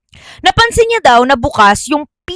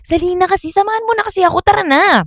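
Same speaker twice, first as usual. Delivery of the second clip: whiny pleading; 9 semitones higher, faster than usual. Acted. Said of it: "Sabi niya naman daw".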